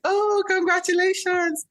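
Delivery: high-pitched, gushing well-wisher; excited congratulations. Retold or imitated. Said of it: "Everybody's like".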